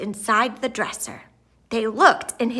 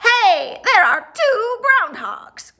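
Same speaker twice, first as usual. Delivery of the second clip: much higher, louder excited call; crying out in amazement; 10 semitones higher, 5 dB louder than usual. A narrator's reading. TV crew spot two groundhogs, crying out. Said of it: "cried the T V crew".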